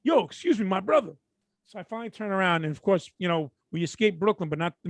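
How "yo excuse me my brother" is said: calling out. Retold or imitated. Retold driver calling to a walker.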